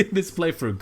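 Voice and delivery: loud, fast, shaky with adrenaline; adrenaline rush. Real, not acted. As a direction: still buzzing after the scare. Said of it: "already my heart is pounding".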